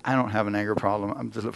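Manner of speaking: defensive denial. Retold or imitated. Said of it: "I turned, and I said".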